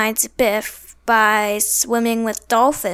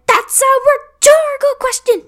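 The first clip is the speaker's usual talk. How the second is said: much higher, louder exasperated shout; exasperated yell; 6 dB louder than usual. Retold or imitated. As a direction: snap it out, fed up. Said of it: "he kept saying".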